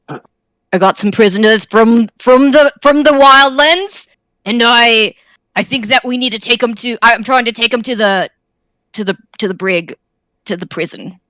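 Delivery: lightly attempted gruff man voice; half-hearted tough guy, hurried and stumbling; a hint of gruff dude, losing confidence. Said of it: "just, like, a gruff dude voice".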